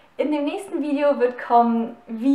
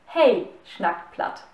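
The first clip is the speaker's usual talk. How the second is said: slow Plattdeutsch model, "Hey" with a long vowel; Low German. Shown as a demonstration. Teacher models "Hey" for learners, slowly in Plattdeutsch. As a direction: draw out "Hey" as the Plattdeutsch pronoun, then pause. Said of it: "Satz einmal auf Plattdeutsch sagen".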